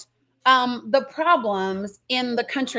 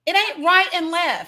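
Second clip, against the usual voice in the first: a real shout, raised and fierce; 5 semitones higher than usual. Real, not acted. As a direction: yell the point out in frustration. Heated rant about us and them.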